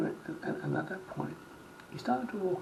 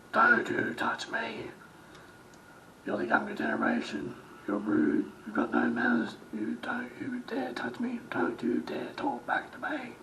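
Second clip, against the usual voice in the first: indignant scolding, pitched up; angry retold rant; 7 semitones higher than usual. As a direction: act out an outraged customer telling someone off. Overheard angry customer retold.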